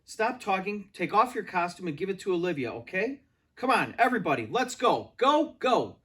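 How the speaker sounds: loud high rushing orders; hurried shouting. A narrator's reading. Director hurries the whole cast, shouting. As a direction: herd everyone out fast.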